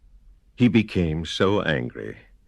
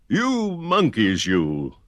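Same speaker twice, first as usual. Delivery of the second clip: scolding; 4 semitones higher, slower than usual. Acted. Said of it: "shaking a finger at them".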